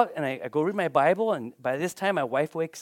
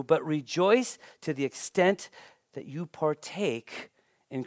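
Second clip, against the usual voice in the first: measured, solemn Bible reading; scripture reading; 2 semitones lower than usual. Acted. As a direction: read it as holy words to the congregation. Reads scripture passage aloud.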